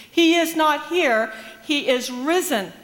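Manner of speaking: slow, loud announcement of good news; proclaiming. Retold or imitated. Angel announcing to the women, loud proclamation. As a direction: ring it out like a herald at the tomb.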